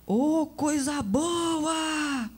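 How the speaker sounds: slow, drawn-out high catcall from a building site; catcalling shout. Retold or imitated. Daughter mimics the worker's catcall, drawn out. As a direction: call it down like a construction worker. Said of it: "alguém gritou lá de cima".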